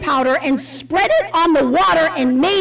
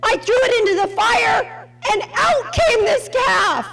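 mock Aaron excuse; 8 semitones higher than usual. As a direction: ham up Aaron's silly excuse. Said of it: "N S A B says".

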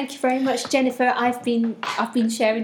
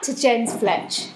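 laughing; 3 semitones higher, 5 dB louder than usual. Real, not acted. Laughing at Porridge joke.

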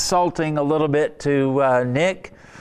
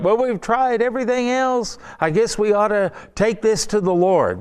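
mock reluctant sigh; 7 semitones higher than usual. Mocking last-resort prayer attitude.

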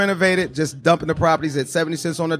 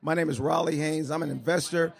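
much softer, barely carrying; mumbled softly to the room; too quiet; 9 dB quieter than usual. Real, not acted. Investor introduces himself too softly to crowd. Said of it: "A lot louder".

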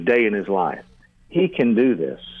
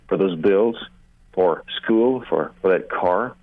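sample prayer; 3 semitones lower than usual. Shown as a demonstration. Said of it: "you might pray something like this".

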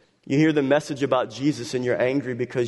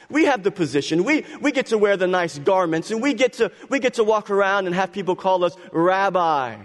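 jealous Pharisees; 4 semitones higher than usual. Acted. Preacher voicing jealous Pharisees.

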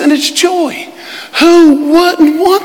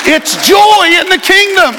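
full-force preaching; 4 semitones higher than usual. Real, not acted. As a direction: drive it home with a shout.

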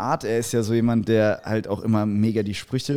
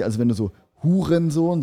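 Hurensohn stressed, voice a bit raised; stressed insult; 5 semitones higher than usual. Shown as a demonstration. Friends debating insult stress, stressed Hurensohn. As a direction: lean on Hurensohn. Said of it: "die Betonung des Wortes Hurensohn".

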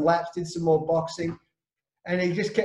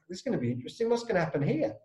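softer, hushed aside; hushed wonder; 6 dB quieter, much faster than usual. Retold or imitated. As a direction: murmur it like the boys watching. Teammates' hushed anticipation.

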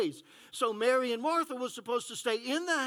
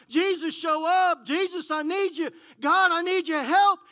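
pleading cry; 5 semitones higher, 7 dB louder than usual. Retold or imitated. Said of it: "we've been asking for Jesus to show up".

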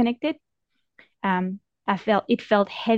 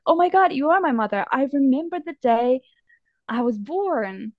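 excited outburst; 4 semitones higher than usual. Retold or imitated. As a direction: blurt it out in a rush of excitement, then ease off. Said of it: "I think I yelled out".

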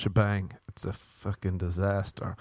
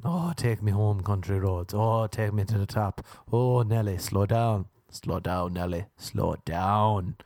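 a light mock climax, sighing the words; mock orgasm moans. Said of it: "we say in Ireland when you want to orgasm".

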